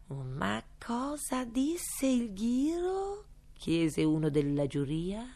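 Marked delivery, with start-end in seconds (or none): 0.1-3.2 juror voice. A narrator's reading. Juror asks in the court.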